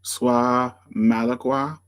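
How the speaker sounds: Sois Malacqua sounded out slowly as French; slow, tentative attempt at the French name Sois Malacqua; unsure French pronunciation. Real, not acted. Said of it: "I don't know how to pers-, pronounce this word".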